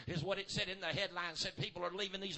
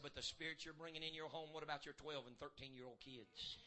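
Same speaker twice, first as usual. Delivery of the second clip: much softer and lower, intimate; quiet preaching; 3 semitones lower, 7 dB quieter than usual. Acted. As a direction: lean in and talk low to them. Drops to quiet storytelling.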